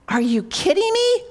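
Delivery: imitating a husband's disbelieving snap; husband on the phone, mock-barking at his wife; retold bark. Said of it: "he barked".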